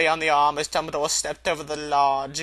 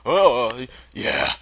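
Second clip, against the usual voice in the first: muffled through a handkerchief; 3 dB louder than usual. Acted. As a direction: speak muffled as if through cloth. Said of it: "said Hagrid in a very muffled voice".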